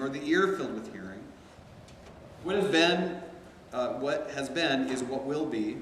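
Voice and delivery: measured reading aloud, phrase by phrase; expressive recitation, pitch lifting then settling at verse ends; scripture reading. A narrator's reading. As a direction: read the Bible passage to a class. Reads Ecclesiastes aloud.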